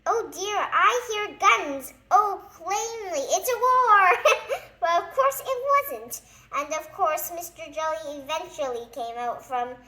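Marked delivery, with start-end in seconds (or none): 0.1-4.2 high, loud panicked wail. Acted. Jelly panics about guns. 4.7-6.2 laughing through the words. Real, not acted. Narrator laughing.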